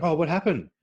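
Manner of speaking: dad's concerned question. Retold or imitated. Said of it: "And he was like".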